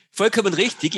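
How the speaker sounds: bursting out with a laugh, loud; loud laughing agreement. Real, not acted. Laughing agreement after being teased.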